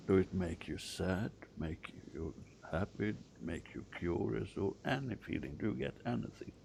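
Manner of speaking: soft, spaced-out guiding questions; quiet therapist-style guidance; guided visualization. Acted. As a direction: gently prompt them to notice feelings, pausing between phrases.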